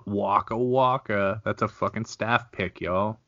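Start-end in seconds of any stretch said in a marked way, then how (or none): 0.1-1.4 a lightly voiced comic rimshot; hammed-up punchline tag; mock Fozzie Bear. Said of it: "Fozzie catchphrase after joke".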